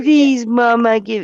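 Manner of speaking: put-on begging, pleading dog voice. Voicing the dog begging to get its toy back: put-on pleading dog voice. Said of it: "'cause he's like".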